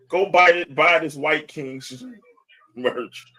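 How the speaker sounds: loud, high hype call; hype shout. Real, not acted. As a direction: sell it like a hype man. Hyping merch at Uncle Ruckus.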